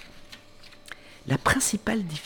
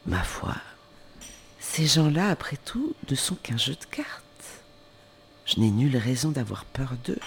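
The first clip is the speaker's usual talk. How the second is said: aside to herself. Acted. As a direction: mutter it just for herself. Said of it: "ajouta à part soi".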